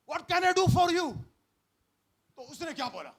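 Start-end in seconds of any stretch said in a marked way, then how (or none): 0.1-1.1 very slow, loud, high English line; Jesus asking the blind man, very slow and loud; slow loud question. Acted. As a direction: draw out every word gently.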